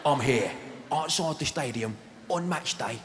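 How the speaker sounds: a lightly done Danny Dyer to camera, slowing into fear at the end; Danny Dyer impression. Danny Dyer outside Ibrox talking to the camera, mock-serious. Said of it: "He's going, he's going".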